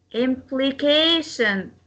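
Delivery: slow "Implication", CA stressed and drawn out. Shown as a demonstration. Teacher demonstrates word stress, slow stressed CA in "Implication". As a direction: stretch the CA in "Implication". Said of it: "We stress the".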